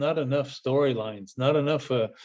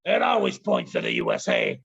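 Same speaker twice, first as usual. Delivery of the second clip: Mountie punchline. Retold or imitated. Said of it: "I say".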